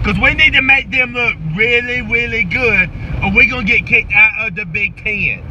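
lightly voiced football coach firing up the team; halftime pep speech. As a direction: coach hyping up his players at halftime. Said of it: "Here it goes".

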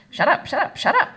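put-on high, loud child's shriek. A narrator's reading. Enraged girl silencing the laughers, shrieking. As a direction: shriek it like a furious toddler. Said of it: "she shrieked".

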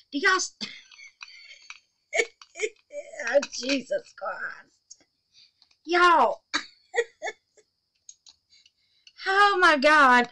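high, loud, helpless laughter between words; real laughing fit. Real, not acted. Telling viewers about botched clock assembly, helplessly laughing.

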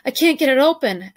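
high, loud panicked cry; scrabbling at the clasp in a panic; frantic. Acted. Ellen panics over the stuck necklace clasp, frantic. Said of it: "Ellen said frantically".

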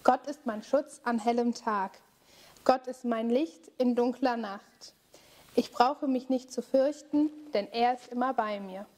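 calm, steady recited refrain; prayer refrain. Acted. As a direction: lead the group in a spoken prayer.

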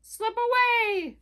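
high, loud frog call; lightly voiced frog calling a warning; croaking frog. A narrator's reading. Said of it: "croaked Frog".

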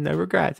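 "regrets" said as "re-GRAT"; misspelled regrets. Retold or imitated. Playing the tattooed guy, "regrets" as "regrat". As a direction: say "regrets" with the vowel of "rat". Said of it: "R E G R A T S".

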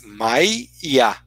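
Maia sounded as Mai-ia, the i doubled; Maia with two Is. Shown as a demonstration. Lecturer spelling out two Is in Maia for the class. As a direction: spell out both Is in Maia as you say it. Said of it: "você tem dois Is".

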